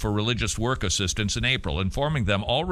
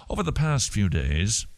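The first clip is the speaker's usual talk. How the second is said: attempted British accent; 2 semitones lower than usual. Shown as a demonstration. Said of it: "supposed to be a British accent".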